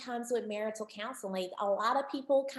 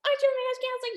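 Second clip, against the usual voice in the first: mock challenge, pitched up on the question; lightly voiced audience heckle; teasing audience member; 4 semitones higher, faster than usual. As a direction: play a sceptic poking at the counselor. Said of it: "you may say".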